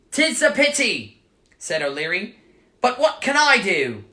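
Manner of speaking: lightly voiced Irish leprechaun shrugging it off; Irish accent. Leprechaun answers Michael in a faint Irish accent. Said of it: "I'm working on the Irish accent".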